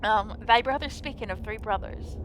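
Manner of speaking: solemn faux-archaic fairy-tale speech; lightly voiced medieval drama; mock Old English. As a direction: play it like an old legend, grave and formal. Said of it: "And very serious".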